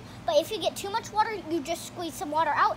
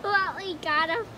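words shaking with giggles; laughing while talking; 3 semitones higher than usual. Real, not acted. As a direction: talk through laughter. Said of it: "You have to talk normal and stop shaking".

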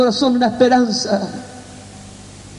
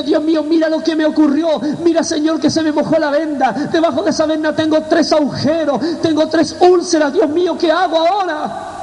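retold plea to God, pitched higher; anguished prayer; 3 semitones higher than usual. Man praying in the shower over his wet bandage, anguished plea. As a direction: cry out in prayer with mild alarm.

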